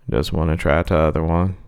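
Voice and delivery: low clown voice. Acted.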